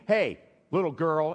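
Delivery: put-on offhand "hey" to a child; casual calling out. Shown as a demonstration. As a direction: call out to her without any affection. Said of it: "It doesn't mean".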